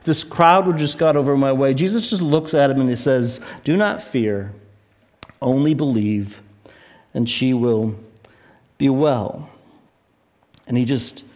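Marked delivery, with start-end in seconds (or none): 3.6-9.5 low, measured reassurance with pauses; quoted gently in a lower, unhurried voice; calming reassurance. Retold or imitated. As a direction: settle a frightened parent, phrase by phrase. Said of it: "calms the interruption".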